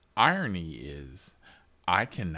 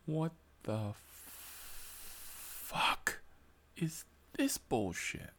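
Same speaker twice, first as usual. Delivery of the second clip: disbelieving inner voice; 7 semitones higher, 5 dB quieter, slower than usual. Retold or imitated. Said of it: "I'm saying to myself".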